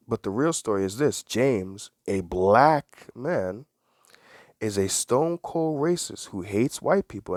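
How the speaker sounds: slow, drawn-out "black" in "a black man"; stress on black. Shown as a demonstration. Quoting the article again, stressing "black". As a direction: hit "black" hard and slowly. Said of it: "Emphasis on certain words here".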